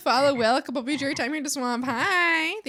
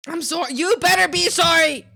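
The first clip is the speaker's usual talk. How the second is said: loud, playful "you better be sorry"; half-joking shouted scolding; mock scolding yell; 4 semitones higher, 9 dB louder than usual. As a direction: scold the chat in fun.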